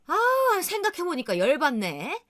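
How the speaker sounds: sudden high indignant cry that settles; mother fuming. Retold or imitated. Mother venting to daughter about the sister-in-law, high indignant cry. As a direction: flare up at the thought.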